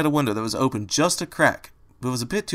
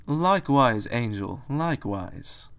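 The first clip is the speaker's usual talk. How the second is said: hissed; slower than usual. A narrator's reading. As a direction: let it slither out slowly. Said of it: "Opal hissed".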